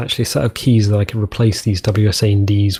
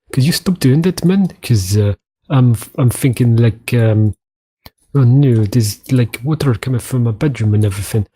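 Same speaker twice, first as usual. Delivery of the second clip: botched, unplaceable attempt at an Australian accent; put-on Australian accent. Australia grumbles about holes in its bedroom, botched Australian accent. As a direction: complain in a badly faked Australian accent. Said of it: "what accent that was".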